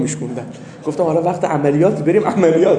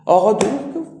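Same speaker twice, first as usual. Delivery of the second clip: mock shout; 4 semitones higher, 4 dB louder than usual. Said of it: "کت خدا داد زد".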